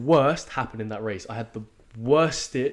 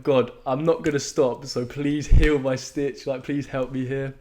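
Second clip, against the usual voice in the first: praying to God; 4 semitones higher, 6 dB louder than usual. Retold or imitated. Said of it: "then I started talking to God".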